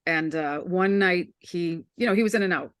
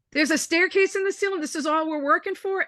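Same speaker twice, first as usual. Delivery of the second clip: retelling his brother's puzzled joke in a raised voice; incredulous brother; 9 semitones higher than usual. Retold or imitated. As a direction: play the brother, baffled and earnest. Brother's punchline about the staircase.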